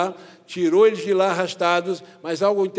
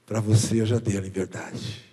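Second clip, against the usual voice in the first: lower, hushed and slow inner voice of God; 8 semitones lower, slower than usual. Retold or imitated. Preacher voicing God speaking to his heart, low and hushed. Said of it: "Deus falou no meu coração assim".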